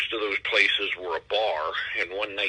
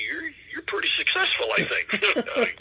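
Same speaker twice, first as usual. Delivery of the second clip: squeaky high voice. Acted. High voice for joke ending.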